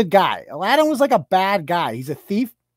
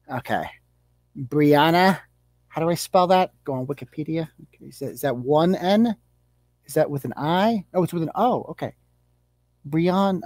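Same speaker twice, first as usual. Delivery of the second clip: muttering to herself while writing, lower and softer; a hint of a dim suburban mom spelling names; mock clueless mom; 5 semitones lower, 4 dB quieter than usual. Comedian acts out mom writing sign.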